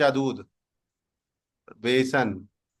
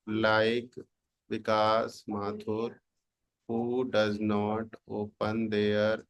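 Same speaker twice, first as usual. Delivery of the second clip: very slow, word by word, softer; slow dictation; 3 semitones lower, 4 dB quieter, much slower than usual. Shown as a demonstration. Teacher typing a joke prompt about a student, slow dictation. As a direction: dictate as you type. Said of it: "dictating prompt while typing".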